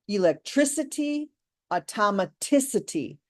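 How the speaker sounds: electricity and automaticity in a parallel rhythm, both stressed on the syllable before "-ity"; line up electricity with automaticity, punching "tric" and "tic"; matching stress. Shown as a demonstration. Teacher comparing similar words, electricity and automaticity with matching stress. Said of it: "they sound similar".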